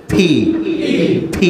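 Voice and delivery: "ফি" with a strong puff of air after closed lips; aspirated P. Shown as a demonstration. Teacher showing how native speakers blow air on P, aspirated demo. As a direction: burst the lips open on "ফি" with a sharp breath. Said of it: "হঠাৎ করে জোরে একটি বাতাস ছাড়বো".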